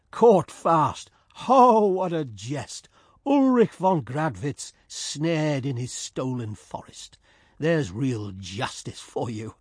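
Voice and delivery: slow, mocking gloat, a touch savage. Trapped Georg gloats over his rival Ulrich, slow and mocking. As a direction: savour the enemy's trap, mockingly. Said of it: "And he laughed again, mockingly and savagely".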